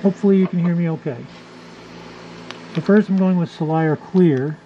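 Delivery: talking through a respirator mask; muffled behind a breather mask. Real, not acted. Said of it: "Apologies for the muffled sound".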